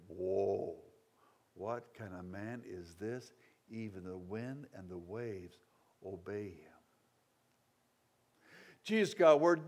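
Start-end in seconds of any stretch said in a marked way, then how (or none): 0.1-6.7 lower, softer, awestruck murmur; awed hush. Retold or imitated. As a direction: marvel quietly, jaws dropped. Awestruck disciples after the calm.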